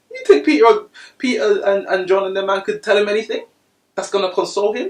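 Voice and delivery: loud, high preaching build; rising preacher shout. Real, not acted. Preacher presses the congregation, loud and high.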